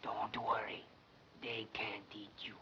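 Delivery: hushed, secret word of comfort; reassuring whisper. Acted. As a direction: whisper it to steady a nervous friend. Reassuring the summoned girl secretly.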